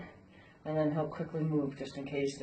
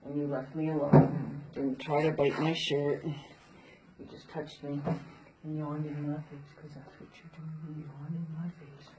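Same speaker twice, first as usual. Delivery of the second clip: praising the horse. Real, not acted. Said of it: "So I'm going to just say".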